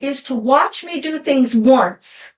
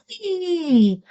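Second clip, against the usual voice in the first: high ee sound; 7 semitones higher than usual. Shown as a demonstration. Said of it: "It's like".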